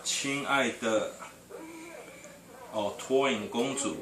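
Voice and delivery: put-on reading each syllable slowly to a child; slow reading aloud. Shown as a demonstration. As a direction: sound out the Chinese slowly. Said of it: "the Chinese writing".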